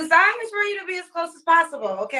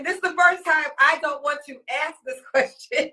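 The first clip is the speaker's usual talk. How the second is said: laughing. Real, not acted. Laugh heard.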